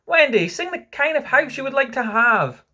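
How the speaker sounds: high, loud appeal; grand, lifted bidding; commanding request. A narrator's reading. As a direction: call to the sleeper to sing. Peter commands sleeping Wendy.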